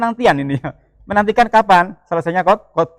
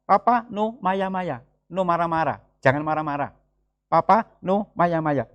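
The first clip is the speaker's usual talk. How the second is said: imitating his toddler; 5 dB quieter than usual. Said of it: "Dia langsung bilang gitu".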